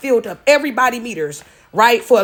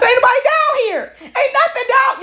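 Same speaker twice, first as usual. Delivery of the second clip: mock crying; 13 semitones higher than usual. Daughter crying to dad on the phone, mock wailing. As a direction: imitate yourself bawling, hammed-up whine. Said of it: "And I'm still crying".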